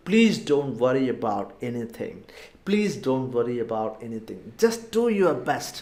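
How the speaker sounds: very slow, word by word; slow model phrase. Shown as a demonstration. Teacher modelling the advice again, very slow. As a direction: spell it out slowly for learners. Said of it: "ഒന്നുകൂടെ പറഞ്ഞു നോക്കാം".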